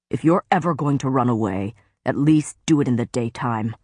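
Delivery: a hint of a stern lord, scolding; low-key reprimand from a brooding lord; lightly voiced stern faerie lord. Tamlin scolding Feyre for running off at night, stern.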